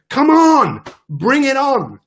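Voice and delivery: high, fired-up challenge; rallying cry. Acted. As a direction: call the battles on like a fighter. Rallying against life's battles.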